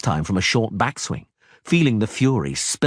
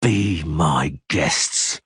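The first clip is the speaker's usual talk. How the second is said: mild anger; 4 semitones lower, much slower than usual. Acted. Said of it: "in a voice trembling with anger".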